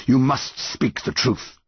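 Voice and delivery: slow, emphatic command; yew tree monster. A narrator's reading. Yew tree ordering the boy to speak, commanding monster voice.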